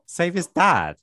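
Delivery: can't believe what she said; shocked disbelief. Retold or imitated. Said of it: "I was like".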